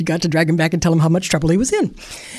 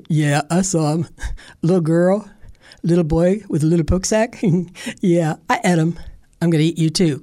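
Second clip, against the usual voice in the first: lightly gruff bear with a chuckle; chuckling bear. Acted. Bear gloating to Grandpa, lightly gruff, chuckling. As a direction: gloat over the meal.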